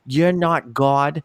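put-on slow, drawn-out Long Island accent; mock-defiant Long Island accent. Customer tells off a man in the shop, Long Island accent. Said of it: "I love how you're doing the accent".

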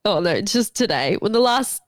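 stuffy, congested nose; blocked nose. Real, not acted. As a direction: speak through a blocked nose. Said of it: "I can't breathe through my nose".

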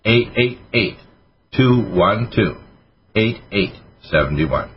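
deliberate, digit groups set apart by pauses; slow and understandable. Real, not acted. Host giving listeners the order number, slowly and clearly. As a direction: read the number out slowly, pausing between groups. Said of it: "I'll speak that slowly enough so you can understand me".

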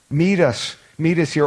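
pleading. Acted. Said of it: "I just want you to hear the tone here".

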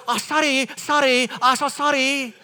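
high-pitched imitated Asian-accented apology; mock Asian accent. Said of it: "to guess the accent".

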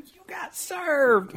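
sassy. Acted. Sassy comeback remark.

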